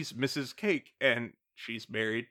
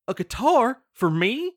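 loud, high, hammed-up surprise; fake surprised; 9 semitones higher, 8 dB louder than usual. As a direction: ham up a fake delighted surprise. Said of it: "fake being surprised".

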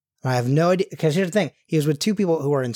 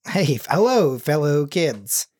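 out-of-touch adult; slower than usual. Pretend. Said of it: "trying to relate to teens".

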